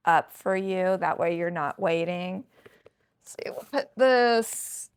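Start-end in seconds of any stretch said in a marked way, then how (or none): 3.3-4.9 half-whispered, higher and airy; whispered self-talk. Real, not acted. Vlogger arranging bags while talking to herself, whispering. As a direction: whisper it absently to yourself.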